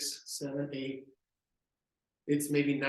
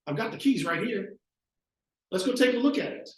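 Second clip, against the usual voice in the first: higher, upbeat salesman greeting; friendly pitch to buyers; 4 semitones higher, 3 dB louder than usual. Retold or imitated. Agent greeting buyers touring new homes, upbeat. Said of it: "He'd get up and go".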